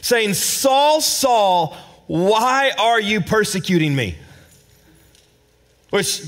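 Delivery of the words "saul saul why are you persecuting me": voice crying out. Retold or imitated. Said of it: "This voice cries out".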